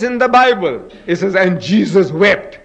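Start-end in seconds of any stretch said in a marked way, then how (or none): 1.4-2.6 "And Jesus wept" said slowly, each word weighted; slow emphasis. Shown as a demonstration. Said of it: "Two words".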